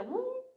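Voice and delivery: rising whoop for a head spin; quick upward-sliding sound effect; imitated whoop. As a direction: swoop the pitch up on the word. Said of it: "my head did a".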